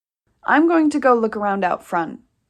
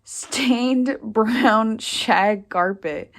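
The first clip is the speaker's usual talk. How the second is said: laughing; much slower than usual. Acted. Sister mocks the old carpet.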